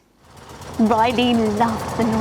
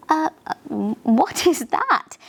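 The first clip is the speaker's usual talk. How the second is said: wide-eyed surprise; 4 semitones higher than usual. Acted. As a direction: gasp it out in wonder. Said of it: "exclaimed Riley with wide eyes".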